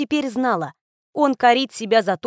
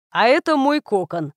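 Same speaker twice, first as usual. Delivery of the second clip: calm. A narrator's reading. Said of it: "всё так же спокойно пояснил он".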